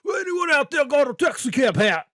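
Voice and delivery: a hint of a dopey teen voice, drawn out; lightly voiced awkward kid asking around; mock-dopey request; Walter Junior voice. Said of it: "that was like Walter Junior from Breaking Bad".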